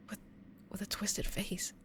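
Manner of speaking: hushed ghost-story whisper; eerie whisper. Acted. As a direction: drop to a spooky whisper. Creepy detail in ghost story.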